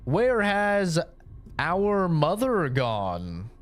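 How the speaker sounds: mock soap-opera brother asking after mother; stilted fictional sibling. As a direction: play a wooden scripted sibling, hammed up. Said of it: "the person's like".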